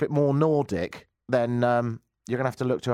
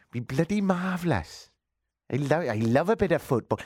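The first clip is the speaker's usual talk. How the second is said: mock West Country yokel, lightly done; hammed-up West Country football fan; West Country accent; 3 semitones higher than usual. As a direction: put on a rural West Country burr. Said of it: "That's gone a bit West Country".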